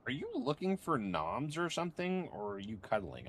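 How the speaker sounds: high sing-song talk to a pet. Real, not acted. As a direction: coo at the dog. Baby talk to her dog.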